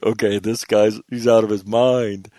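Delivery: mock the crowd cracking up at him; amused audience quote. Crowd laughing at the speaker's defiance, amused loud voice. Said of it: "They're like".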